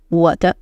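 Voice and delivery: 我的 with 的 light and blended into 我; 我的 with no pause before 的; neutral tone 的. Shown as a demonstration. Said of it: "Really close".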